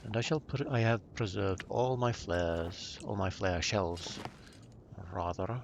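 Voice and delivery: a dry, mock-formal British accent; dry British accent, lightly put on. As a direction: play the stiff British gentleman, deadpan. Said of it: "switch back to my very dry British accent".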